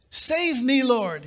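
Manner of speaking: sinking Peter crying out to the Lord; shouted plea. Acted. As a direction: call out as you start to sink. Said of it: "he shouted".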